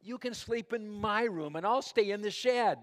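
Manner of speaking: eager change of heart. A narrator's reading. Boy suddenly offers his room.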